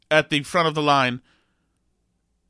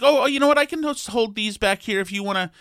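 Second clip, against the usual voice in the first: flustered cashier; 4 semitones higher than usual. Retold or imitated. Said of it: "She's like".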